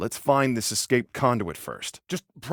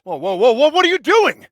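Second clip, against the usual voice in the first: loud, high-pitched alarm; alarmed outburst; 10 semitones higher, 9 dB louder than usual. Acted. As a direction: burst out in disbelief, pitch shooting up. Alarmed at brother's sudden action.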